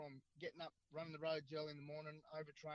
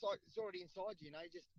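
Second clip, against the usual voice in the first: mate's voice pitched much higher; quoting a mate. Retold or imitated. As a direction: tell it breezily in a squeaky mate's voice. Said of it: "He says".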